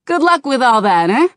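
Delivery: high, loud, excitable goblin. A narrator's reading. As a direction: chatter like a pushy goblin. Goblin mocks Bane.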